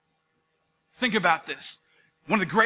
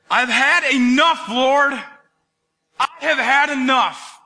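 louder, slow exhausted cry to God; weary plea; 3 semitones higher, 4 dB louder, slower than usual. Acted. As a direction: beg to be done with it. Elijah praying to die.

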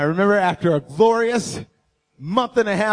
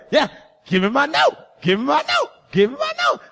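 eager pleading; 4 semitones higher than usual. Retold or imitated. Eager for the note.

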